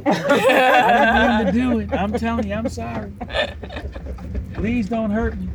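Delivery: high, slow pleading voice; cowering plea. Pretend. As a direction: beg like you're scared of a beating.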